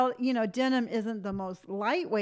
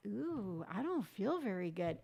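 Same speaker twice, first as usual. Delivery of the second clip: weak sick voice; 2 semitones lower, 8 dB quieter than usual. Retold or imitated. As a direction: sound like your stomach hurts. Quoting herself feeling sick.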